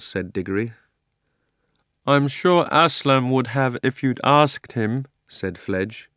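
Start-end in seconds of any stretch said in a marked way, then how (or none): 2.1-5.1 slow, kindly horse voice; talking horse, unhurried. Acted. Fledge speaks.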